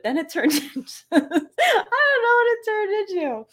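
high-pitched giggling through the words; laughing. Real, not acted. Host confessing the accent went astray, real giggles squeezing the voice high. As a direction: lose it laughing mid-sentence.

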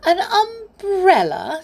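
very high, loud, drawn-out question; giggly disbelief. A narrator's reading. Amelia Jane questions teddy's choice of umbrella, giggly disbelief. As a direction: echo it in mocking amazement. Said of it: "said Amelia Jane with a giggle".

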